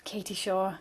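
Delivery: put-on teenage boy voice. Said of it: "You have to do it in teenage boy voice".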